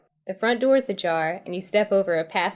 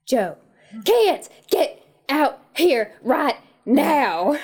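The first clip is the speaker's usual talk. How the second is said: calling out; 6 semitones higher, 5 dB louder, much slower than usual. Acted. Woman calling kids loudly.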